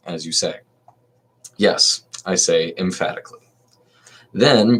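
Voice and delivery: dramatic reading. Acted. Reading Socrates' defence to the court, dramatic reading. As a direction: lift the voice a little to read the defence.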